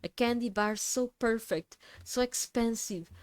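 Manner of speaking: calm, even cultist voice; a light cultist voice, smooth and level; serene glassy monotone. Acted. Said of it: "I like doing the cultist voice".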